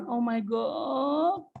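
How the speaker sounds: slow, drawn-out exasperated sigh of words; Oh my God stretched out in despair. Real, not acted. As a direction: let it drag out in disbelief. Teacher exasperated marking answers.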